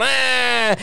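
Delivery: drawn-out "aah"; imitated group cry. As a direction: hold out a mock cry. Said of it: "they're all going".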